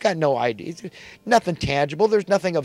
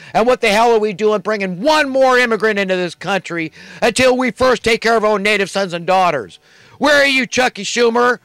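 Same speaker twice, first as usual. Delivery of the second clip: angry rant; 4 semitones higher than usual. Real, not acted. Ranting at Schumer.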